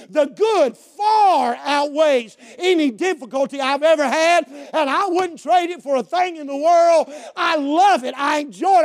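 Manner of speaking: insistent sermon delivery, stretched key words; fervent preaching. Real, not acted. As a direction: preach it out with conviction. Preaches at full force.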